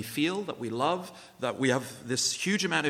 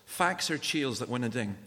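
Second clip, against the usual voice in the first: Scots saying in broad Scots; broad Scottish accent; 2 semitones lower than usual. Shown as a demonstration. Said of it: "in Scottish".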